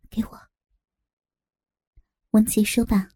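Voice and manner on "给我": very soft, secretive order; whispered demand. Acted. Captive asks cellmate for the knife, whispering. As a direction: whisper it so guards miss it.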